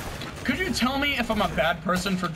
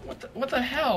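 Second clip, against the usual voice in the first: outraged; 6 semitones higher than usual. Real, not acted. Outraged at teammate.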